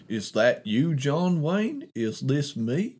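lightly hammed-up drawled movie quote; slow down and lift the end into a mock question; John Wayne. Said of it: "sound like fucking John Wayne".

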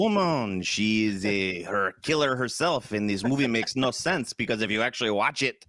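hammed-up French film-fan accent. Mock Frenchman describes the film.

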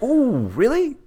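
flirty guy. Retold or imitated.

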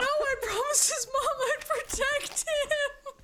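mock wail through laughter; high laughing fake cry. Real, not acted. Player mourns character, laughing.

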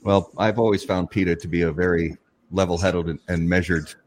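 deadpan sarcasm; dry, straight-faced mock praise; sarcastic. Real, not acted. Host jokingly praising peta as level-headed, sarcastic. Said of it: "That was sarcasm".

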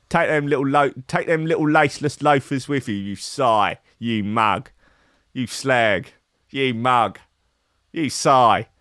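mock-Cockney hard man; hammed-up Cockney put-downs; Danny Dyer. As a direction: spit out insults one by one, Cockney style. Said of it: "Danny Dyer, Cockney Jesus".

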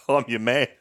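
Sean Connery. Acted. Actor agrees to play an American, mock Scottish accent. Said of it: "Sean, we need you to play".

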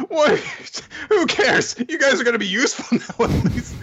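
high, fast, uncaring brush-off; callous dismissal. Retold or imitated. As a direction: shrug off their suffering like a jerk. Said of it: "And Queen's like".

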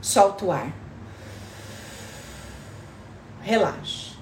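calm them down gently, unhurried; soft spa whisper. Acted. Leads a breathing relaxation.

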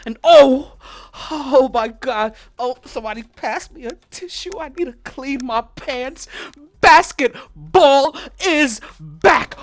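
excited. Real, not acted. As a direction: scream that basketball is back. Hyped over basketball.

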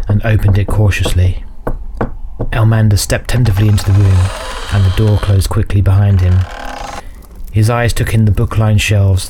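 measured fantasy audiobook narration; story narration. A narrator's reading. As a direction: narrate a dark fantasy tale evenly.

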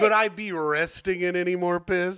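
a half-hearted Chandler line, little stress on "be"; Matthew Perry impression. Podcast host trying a Chandler impression, lightly voiced. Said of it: "can I do my Matthew Perry impression".

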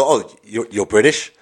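mock American salesman accent, teasing. An American clerk slapping sales tax on a Brit, in a mock American accent. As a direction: sell it like a smug American clerk calling him buddy. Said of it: "your American accent".

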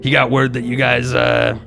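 friendly messenger voice. Acted.

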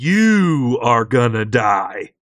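mock menace. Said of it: "this monster's like".

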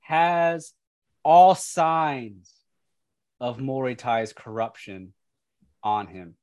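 slow, deliberate scene-setting with pauses; game master narration. Acted. Game master describing the corrupted child to players, ominous narration. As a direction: lean on key words, leaving pauses between phrases.

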